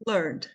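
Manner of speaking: "Learned" as lurnd, one beat; "Learned", no vowel before the D; one-syllable pronunciation. Shown as a demonstration. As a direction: model "Learned" with silent E. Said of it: "Uma sílaba só".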